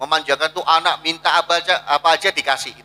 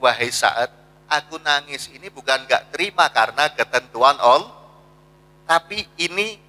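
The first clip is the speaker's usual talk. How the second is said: Prophet's gentle answer; 3 semitones lower than usual. Retold or imitated. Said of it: "Kata Nabi".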